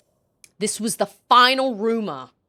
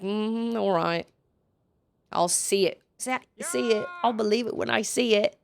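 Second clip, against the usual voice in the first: unimpressed reply; 6 dB quieter than usual. Acted. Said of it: "I'm like".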